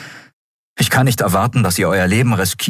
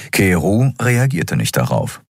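ordinary delivery, nothing marked

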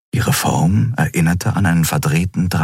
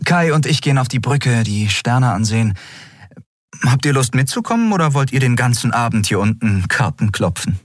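higher, friendly invitation; captain asking the crew upstairs; Endriel inviting; 6 semitones higher than usual. Acted. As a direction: call the others along.

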